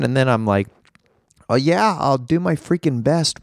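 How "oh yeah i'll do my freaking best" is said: higher-pitched self-mimicry; mock eagerness. Podcaster mimics himself promising fans his best, mock-eager. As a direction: imitate your own keen promise.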